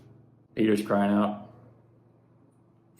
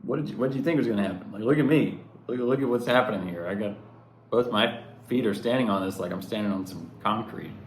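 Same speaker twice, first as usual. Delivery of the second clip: amused Jesus; 3 semitones higher, faster than usual. Pretend. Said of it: "he's sort of just holding on to him, just kinda like".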